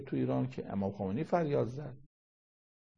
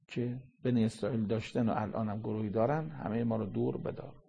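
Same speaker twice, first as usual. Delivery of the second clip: closing prayer. Acted. Preacher leading the congregation in closing prayer, earnest and softening. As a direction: pray it humbly, letting it soften.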